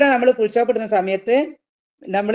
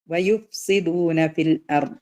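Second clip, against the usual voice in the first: slow recitation; slower than usual. Shown as a demonstration. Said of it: "lesson recitation demo".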